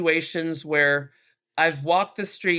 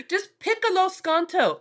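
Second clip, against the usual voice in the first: excited; 14 semitones higher than usual. Shown as a demonstration. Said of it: "That's all any American girl needs to know".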